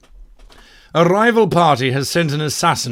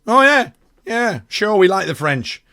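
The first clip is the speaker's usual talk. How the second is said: mock party member with a French accent; a light, hammed-up French accent, higher; 6 semitones higher, 4 dB louder than usual. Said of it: "that's where the accent came from".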